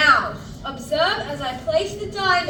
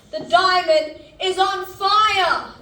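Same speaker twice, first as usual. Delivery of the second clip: thrilled showman announcing a fire; excited; 3 semitones higher, 5 dB louder, slower than usual. Acted. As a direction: proclaim it with stage excitement. Dramatic reveal to audience.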